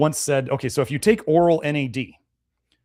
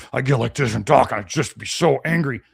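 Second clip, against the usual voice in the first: imitating angry patient. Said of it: "demonstrate how he would feel".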